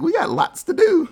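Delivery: hammed-up gangster threat; loud high parody of a gloating boss; mock menace. Retelling Marcellus threatening Zed.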